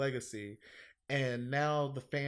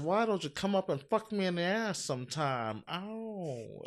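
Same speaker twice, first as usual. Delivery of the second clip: Mae West impression; 4 semitones higher than usual. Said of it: "she says".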